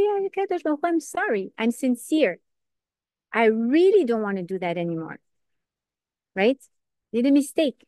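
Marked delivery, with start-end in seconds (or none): 0.0-5.2 higher, pleading, heartfelt; sincere plea. Acted. The penitent sincerely pleading to HaKadosh Baruch Hu, higher. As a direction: lift the voice in an earnest plea.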